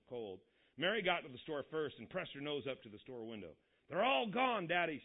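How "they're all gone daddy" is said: loud, higher excited call; shouting girl. A narrator's reading. Girl at the store window shouts to her father, loud and high. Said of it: "she shouted".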